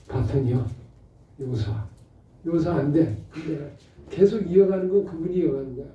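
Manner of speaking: normal talking voice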